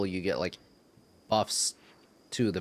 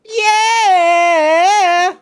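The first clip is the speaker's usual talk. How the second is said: high whooping yell; high shout; 17 dB louder than usual. Real, not acted. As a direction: whoop it out loud. Cheering before the chorus.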